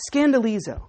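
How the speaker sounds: Scandalizo said as skan-da-LEE-zo, stress on LEE; Greek pronunciation. Shown as a demonstration. Pastor showing the congregation the Greek word Scandalizo, clearly pronounced. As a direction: sound out Scandalizo syllable by syllable. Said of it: "Listen to this Greek word".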